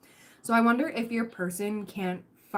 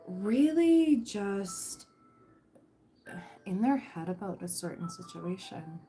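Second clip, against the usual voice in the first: whispered; slower than usual. Real, not acted. Tarot reader telling viewer the person is in their head, whispered. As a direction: drop to a secretive whisper. Dramatic aside about overthinking.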